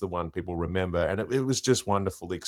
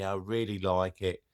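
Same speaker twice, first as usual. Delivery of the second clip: lightly voiced English friend; mimicked English accent; 4 dB quieter than usual. Impersonator mimicking his English childhood friend, in an English accent. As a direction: put on a casual English accent. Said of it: "I would mimic his voice".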